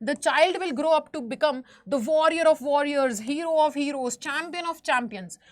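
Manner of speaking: slow, deliberate read-aloud; teacher reading a story passage slowly to the class. Acted. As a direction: read the book line slowly, word by word. Reads English story text aloud.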